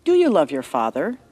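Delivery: gentle storyteller reading a bible story; story narration. A narrator's reading. Narrator telling a child-friendly story to listeners. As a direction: read it like a bedtime tale for children.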